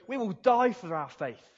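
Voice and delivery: a hint of defiant martyrs; bold disciples' vow. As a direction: declare it like fearless disciples. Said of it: "And they will go".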